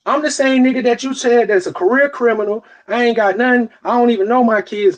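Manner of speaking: high-pitched, incredulous self-description; sarcastic indignation. Retold or imitated. Dad quoting his ex's insults back at her, indignant.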